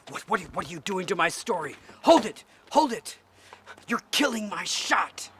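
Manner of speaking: high, loud stammer into shouted commands; outraged director. Acted. Director to actors ruining the story, outraged shouting. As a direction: yell to stop the take. Director halts a spoiled take.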